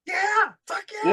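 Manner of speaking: high, drawn-out mock cheer; enthusiastic yes. Store owner answering people asking to visit, mock-enthusiastic. Eager reply to a visit request.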